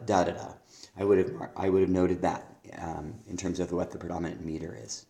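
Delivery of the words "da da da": da, da, da with only the first beat stressed; stress pattern demo. Shown as a demonstration. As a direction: tap out "da, da, da" as strong-weak-weak. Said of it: "it's plethora".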